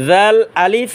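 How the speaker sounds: জাল with a soft voiced th, "dhal". Shown as a demonstration. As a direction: keep জাল light, not thick. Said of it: "মানে নরম আওয়াজে".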